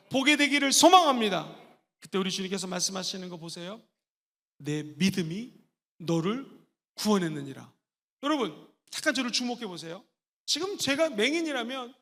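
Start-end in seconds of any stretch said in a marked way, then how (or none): 4.6-7.7 solemn Jesus. Acted.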